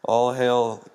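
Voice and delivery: lightly voiced witch, slow drawn-out words; witch's hailing. A witch hails Macbeth after the battle, slow mock proclamation. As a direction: intone it slowly as a mock proclamation.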